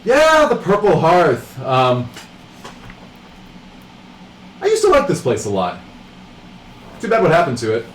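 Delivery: a cool rogue, barely bothering to look up; lightly voiced bored rogue. Knife-twirling rogue talks to the party, lightly voiced and bored. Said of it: "and she says".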